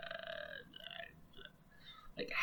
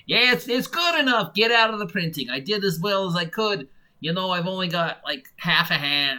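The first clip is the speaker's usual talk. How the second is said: higher, louder put-on publisher brushing it off; mock publisher voice; 4 semitones higher, 4 dB louder than usual. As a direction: sing it out like a lazy boss who gave up. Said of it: "I don't know why I'm talking like this".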